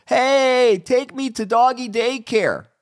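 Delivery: high, eager begging voice as the dog; pretend dog begging. Dog asking its owner to go to daycare, high eager begging. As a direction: beg like a dog wanting daycare.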